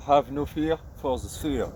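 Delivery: slow English with a thick French accent; bad English accent. Real, not acted. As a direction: read it slowly in clumsy French-accented English. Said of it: "Mon accent anglais va vraiment faire pleurer". (anglais lent, accent français à pleurer)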